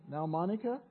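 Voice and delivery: kindly calming mother. Retold or imitated. Mother in the grocery store calming Monica, kindly and gently. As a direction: reassure softly, as a patient mother. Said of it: "speaking so kindly".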